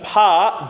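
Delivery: "Pa" with an open ah; ah sound. Shown as a demonstration. Choir leader drilling the vowel, ah sound. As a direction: open "Pa" out into a long ah. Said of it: "it's that ah sound".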